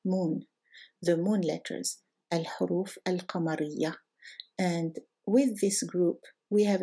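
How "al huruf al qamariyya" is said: al-huruf al-qamariyya with Arabic h and q; careful Arabic al-huruf al-qamariyya; Arabic pronunciation. Shown as a demonstration. Teacher models Arabic term carefully. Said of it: "in Arabic they're called".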